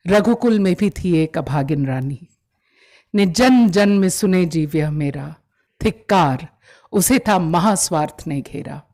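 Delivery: measured, declaimed Hindi verse with pauses between lines; poetry recitation. Acted. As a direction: recite it as a dramatic narrative poem. Recites a poem by heart. (भावपूर्ण काव्य-पाठ)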